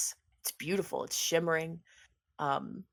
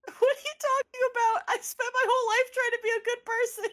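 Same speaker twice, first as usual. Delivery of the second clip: much higher, louder offended squeak; Dandy, huffy and wounded, defending her goodness; indignant Dandy; 5 dB louder than usual. Acted. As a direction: protest like you're insulted.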